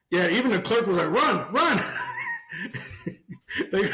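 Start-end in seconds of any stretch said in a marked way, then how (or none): 1.1-3.9 urgent mock yell. Clerk urging him to flee.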